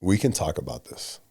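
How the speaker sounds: low, measured and reasonable; calm, controlled voice. Shown as a demonstration. One leader reasoning with another man, calm and controlled. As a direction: keep the voice down, man to man. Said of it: "Our voices do not need to get higher than this".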